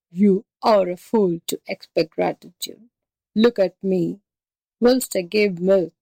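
slightly altered voice of a resentful buffalo; lightly voiced buffalo, grumbling at being ill-used; bitter buffalo. Buffalo figure answers in the story.

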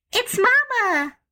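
put-on high, excited child's cry; girl crying out. A narrator's reading. Jane Gladys hearing the doorbell, high excited cry. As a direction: call out with sudden relief. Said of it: "cried Jane Gladys".

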